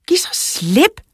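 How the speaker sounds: very high shouted demand; shouting. A narrator's reading. Lara yelling at Tobias holding the door, shouting. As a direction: cry it out to make him let go. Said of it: "råbte Lara til Tobias".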